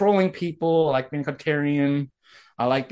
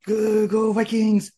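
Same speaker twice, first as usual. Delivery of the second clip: mock cheer; 6 semitones higher, slower than usual. Half-hearted cheer while watching football.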